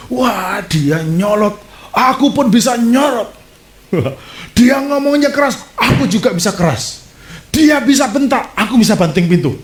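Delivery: high, hammed-up indignation; defiant retort. Preacher voicing a spouse in a marital quarrel, mock defiant. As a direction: fire back like a quarrelling spouse.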